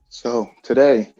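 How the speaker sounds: winded and out of breath; catching his breath between words. Real, not acted. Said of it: "Sorry, I'm catching my breath".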